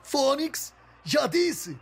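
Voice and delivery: exasperated. Acted. Frustrated caller swearing.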